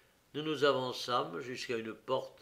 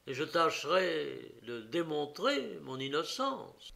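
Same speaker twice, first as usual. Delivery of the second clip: detective coaxing the prisoner; 3 semitones higher than usual. Acted. Detective urges the prisoner to prove his innocence, firm coaxing voice. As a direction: press him gently to defend himself.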